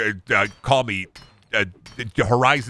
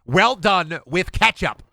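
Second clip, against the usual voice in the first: mock steak guy; 5 semitones higher than usual. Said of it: "And then be like".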